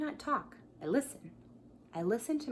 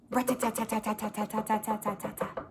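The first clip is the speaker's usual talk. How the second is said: woodpecker rattle. Retold or imitated. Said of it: "He goes".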